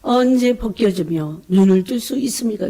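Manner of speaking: mild re-enacted outcry in prayer; retold crying out. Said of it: "이러고 부르짖었어요".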